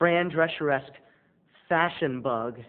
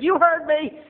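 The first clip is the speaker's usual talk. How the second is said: loud, higher defiant retort; defiant shout; 12 semitones higher, 7 dB louder than usual. Retold or imitated. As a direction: stand your ground and fire it back. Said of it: "and I said".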